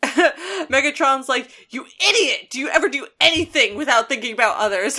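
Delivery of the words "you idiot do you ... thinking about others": much higher, a hammed-up rant, fast at the end; mock angry Megatron. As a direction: rant at him half-laughing. Megatron yells at Starscream.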